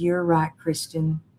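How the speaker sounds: usual speaking voice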